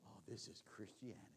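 sarcastic breathy whisper; a sneering aside, whispered to the congregation; mocking whisper. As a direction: hush it like a mock secret. Mocking modern church in whisper.

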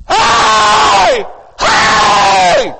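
loud calling shout across the station; big high hey hey call; yelling. Retold or imitated. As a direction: shout to get the crowd's attention. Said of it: "and I yelled".

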